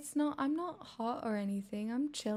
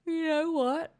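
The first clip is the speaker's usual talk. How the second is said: exasperated; 7 semitones higher, 7 dB louder, slower than usual. Real, not acted. Sudden decision to end stream.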